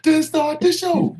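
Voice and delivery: high, slow hyped-up announcer cry; wrestling promo. Retold or imitated. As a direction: belt it out like a wrestler hyping the crowd. Imitating a wrestler's entrance promo.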